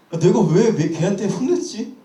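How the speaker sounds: a mild retold lump in the throat; choked-up regret. Uncle regretting scolding his niece, choked up. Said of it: "제가 약간 울컥하는 거예요".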